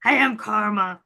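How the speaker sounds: light Cookie Monster growl; a hint of Cookie Monster. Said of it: "That sounds like Cookie Monster or".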